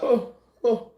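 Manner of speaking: mock crowd cooing in sympathy; touched little oohs; imitated audience aww. Acting audience moved by the scene.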